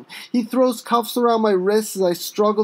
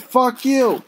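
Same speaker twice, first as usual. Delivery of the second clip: defiant; 4 semitones higher than usual. Acted. Arrested man repeats his insult to the cop. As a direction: throw it at the cop again. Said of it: "I said".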